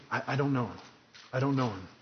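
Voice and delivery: hushed, timid denial barely voiced; mock whisper. Shown as a demonstration. Preacher showing a timid denial, whispered. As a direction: whisper it like a scared man. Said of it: "It's not that he's just whispering".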